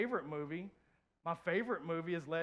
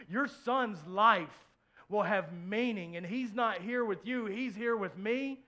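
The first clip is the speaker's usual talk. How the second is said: tender voice of God; 2 semitones higher, 5 dB louder than usual. Retold or imitated. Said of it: "He said".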